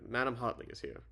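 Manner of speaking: put-on light British accent, R dropped in Hartley; amateur British butler announcing a caller. Arthur announcing madam to the president, light British accent. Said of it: "oh yeah, British accent".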